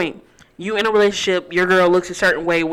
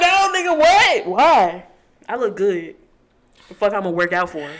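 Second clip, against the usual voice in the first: put-on indignant girlfriend voice.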